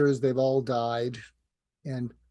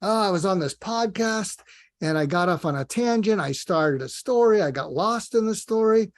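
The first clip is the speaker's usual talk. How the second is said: higher-pitched worked-up confessing; mock confession; 4 semitones higher, 4 dB louder than usual. Mentee confesses podcast slips to dead mentor, mock fretting. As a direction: own up in a mild, comic fluster.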